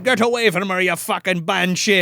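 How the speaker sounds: mock angry warning. Acting man warding off banshee.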